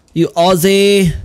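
drawn-out shout of "You Aussie"; shouted insult. Real, not acted. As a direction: yell "Aussie" slowly after him. Chasing the Aussie NPC.

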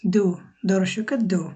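"দু" slowly, with the tongue on the teeth; careful, slow dental "দু"; slow dental d demo. Shown as a demonstration. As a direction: repeat "দু" like the d in দর্শক. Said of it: "এটা হবে দু".

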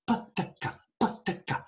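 "pataka" softly tapped out, barely any voice; short light stops on "pataka", front to back; crisp syllable demo. Shown as a demonstration. Lecturer showing front, middle, back, crisp soft syllable demo. Shows syllables inside patty cake.

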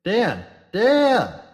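rising to a piercing scream; sudden scream. Acted. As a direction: scream his name in alarm. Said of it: "she screamed suddenly".

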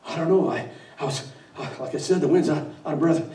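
nervous underling babbling to the boss; flustered wind. Acted. The wind excuses itself to the devil, flustered and stammering.

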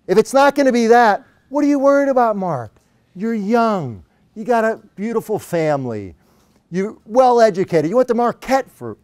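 high-pitched, upbeat Australian imitation; cheery Australian accent. Coach reassures his worried client, cheery Australian accent. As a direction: buck him up in a put-on Australian voice. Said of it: "in his annoyingly cheery Australian accent".

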